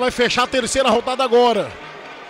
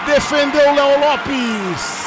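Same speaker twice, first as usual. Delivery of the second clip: excited; much slower than usual. Real, not acted. Penalty saved.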